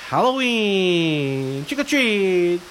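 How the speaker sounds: lightly voiced witch; a hint of a witch calling out. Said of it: "the witch goes".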